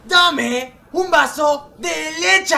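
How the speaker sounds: slow, shouted "dame un vaso de leche"; shouting. Real, not acted. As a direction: bellow the order across the room. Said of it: "¿Por qué me estás gritando a mí?".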